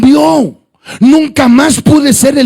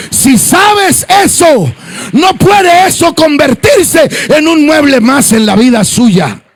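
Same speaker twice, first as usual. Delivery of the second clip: preaching; 3 semitones higher than usual. Acted. Pastor to the congregation, preaching at full force. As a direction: drive it home to the faithful.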